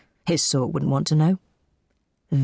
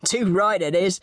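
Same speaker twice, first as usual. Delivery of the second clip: cheerful agreement; 3 semitones higher than usual. A narrator's reading. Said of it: "agreed the cheerful voice".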